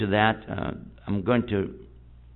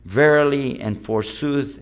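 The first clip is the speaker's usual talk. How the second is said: slow mock old English; hammed-up King James reading; elizabethan english; slower than usual. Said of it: "In what's called Elizabethan English".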